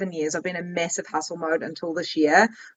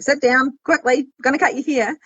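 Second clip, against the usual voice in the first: higher, hurried salon patter; rushed hairdresser; 5 semitones higher than usual. Retold or imitated. A rushed haircut she wants to avoid, higher and hurried. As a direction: rush the client into the chair.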